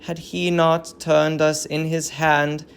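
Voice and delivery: solemn tragic verse, lightly voiced; a hint of an old queen grieving; grieving queen's lament. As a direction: mourn the fallen city in measured verse. Hecuba's vision speech.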